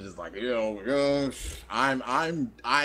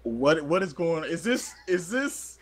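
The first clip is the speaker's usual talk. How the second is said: high bewildered voice; 9 semitones higher, 6 dB louder than usual. Retold or imitated. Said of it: "I'm like".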